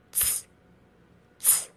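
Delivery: voiceless ts as at the end of it's; pinyin c sound. Shown as a demonstration. Teacher showing learners pinyin c, a bare voiceless ts. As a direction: release ts alone with no vowel. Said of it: "sounds like T S as in it's".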